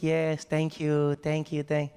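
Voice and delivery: slow, drawn-out thanks; hospitable welcome. Retold or imitated. Man thanking his guests, hospitable and unhurried. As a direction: act out a gracious host, very slowly. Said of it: "He was, he was all hospitable".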